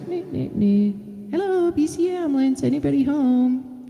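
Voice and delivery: high, sing-song siren "nee, nee, nee" then a bright hello; paramedic wellness-check call. Shown as a demonstration. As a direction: announce yourself at the door like a cheerful paramedic. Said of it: "that's how you do it".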